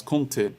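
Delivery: کنته with its first vowel through the nose; teacher restating nasal کنته; nasal vowel demo. Shown as a demonstration.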